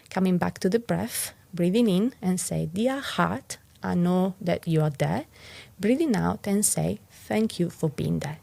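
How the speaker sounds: calm, even guiding voice with gentle pauses; guided meditation. Acted. Teacher guiding listeners through a heart mantra, calm guiding voice.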